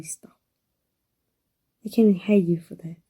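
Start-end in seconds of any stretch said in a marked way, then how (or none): 1.8-3.0 breathy whispered admission. Acted. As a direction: whisper it close, as if confessing. Intimate confession to a loved one.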